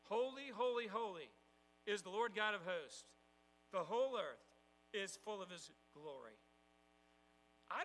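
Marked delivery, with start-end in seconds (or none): 0.0-6.4 ringing proclaimed call of holy; seraphs calling out. Acted. Seraph calling to another seraph, loud proclamation. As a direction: call it out to each other, loud and bright. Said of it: "called to the other and said".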